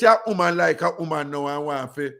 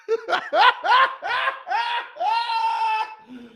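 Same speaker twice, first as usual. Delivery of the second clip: shrieking laugh. Real, not acted. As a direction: laugh out hard at the story. Laugh breaks out mid story.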